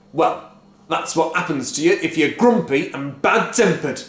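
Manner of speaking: cry. A narrator's reading. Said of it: "cried Mister Cranky".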